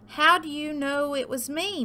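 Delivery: high, lightly moaned complaint; moaning. A narrator's reading. Turkey found out by cow, high moan. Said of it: "moaned Turkey".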